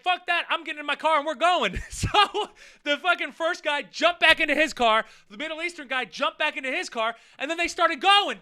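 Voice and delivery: loud, high, laughing through it. Real, not acted. Laughing at the fighters running back to their cars. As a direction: laugh while telling it.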